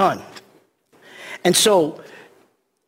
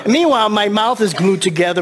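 chuckling through the words; laughing; 3 semitones higher than usual. Real, not acted. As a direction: laugh while you say it. Laughing while joking.

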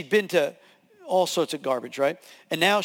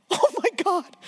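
amazed; 12 semitones higher than usual. Retold or imitated. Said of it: "Pat's like".

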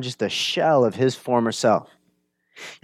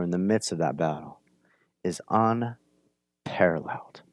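hushed whisper; 7 semitones lower, 6 dB quieter than usual. Real, not acted. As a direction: drop to a reverent whisper. Hushed emphasis on Jesus' power.

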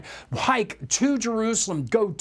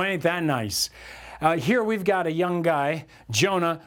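ordinary talk

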